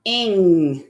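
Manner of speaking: "Ing" said as one joined sound; "Ing" as a single ringing unit; glued sound demo. Shown as a demonstration. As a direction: run "Ing" together, holding the ng. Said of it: "We say it all together".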